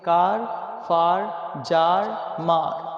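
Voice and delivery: "कार, फार, जार, मार" with long "आ"; word-by-word list, each with an aah before r. Shown as a demonstration. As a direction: model "कार, फार, जार, मार" one at a time with open vowels. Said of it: "इसे हम पढ़ेंगे".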